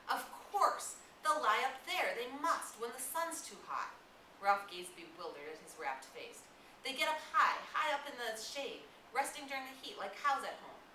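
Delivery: put-on high, loud, eager boy; rapt excitement. Jack to Ralph, planning the hunt, high and excited. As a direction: rush it out thrilled by the idea.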